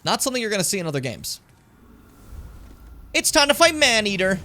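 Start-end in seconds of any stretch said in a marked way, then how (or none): 3.2-4.4 high, loud boss-fight call; hyped announcement. Real, not acted. Streamer introduces the boss to viewers, hyped announcement. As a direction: announce the fight with raised, excited voice.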